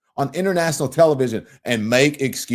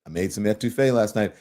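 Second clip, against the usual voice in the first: put-on Southern accent; 3 semitones lower, 4 dB quieter than usual. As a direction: let the Southern accent slip out for Mama. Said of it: "transcend my Southern accent".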